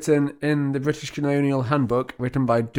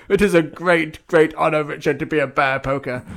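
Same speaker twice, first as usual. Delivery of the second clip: louder grand proclamation; pompous ritual elder; 3 semitones higher, 3 dB louder than usual. Pretend. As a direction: insist on the great honour. Ritual leader insists.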